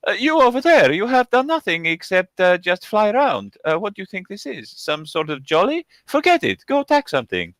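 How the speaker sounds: high, loud nagging kobold voice; squeaky little monster barking orders; bossy kobold. Acted. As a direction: scold the flier like a tiny pushy goblin. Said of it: "this kobold just says".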